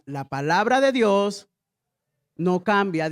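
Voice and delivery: slow, spaced phrase for the church; slow call to repeat. Shown as a demonstration. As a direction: say it slowly so all can repeat.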